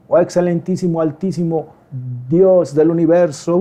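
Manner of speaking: mock-grand address, slowing at the end; hammed-up lofty praying; pompous prayer. Preacher mocks those praying in fancy words, pompous. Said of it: "no estar usando palabras rebuscadas".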